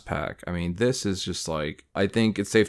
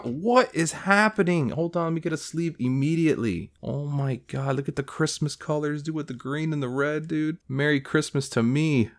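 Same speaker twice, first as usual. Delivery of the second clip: much higher, quick and giddy; giddy excitement; 6 semitones higher than usual. Real, not acted. Collector giddy over a green card, high excitement. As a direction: bubble over with glee.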